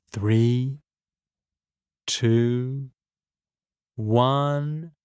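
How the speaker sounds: suspenseful count with long gaps; drawn-out storybook countdown; slow countdown. A narrator's reading. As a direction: count down deliberately, holding each number. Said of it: "It counted from three to one".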